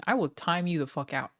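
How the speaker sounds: normal talking voice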